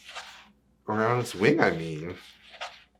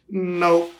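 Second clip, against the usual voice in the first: bird refusing; 7 semitones higher, 4 dB louder than usual. Acted. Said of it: "says the bird".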